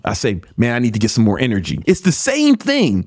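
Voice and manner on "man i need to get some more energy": brisk, matter-of-fact resolve; positive. Acted. Host modeling the positive rephrase, brisk and resolved. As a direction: say it quickly, ready to fix it. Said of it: "one is negative and one is positive".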